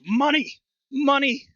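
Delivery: very high, loud parrot squawk; the bird parrots money at the table. Acted. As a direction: screech the word like a mimicking bird. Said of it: "the bird looks up and goes".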